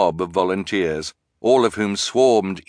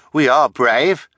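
higher, louder insistence; insistent; 6 semitones higher, 6 dB louder, slower than usual. A narrator's reading. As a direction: protest it firmly, pitched up. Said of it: "Hugo insisted".

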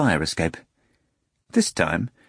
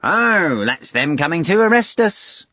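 Azazello voice; 8 semitones higher, 4 dB louder than usual. A narrator's reading. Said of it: "Azazello replied".

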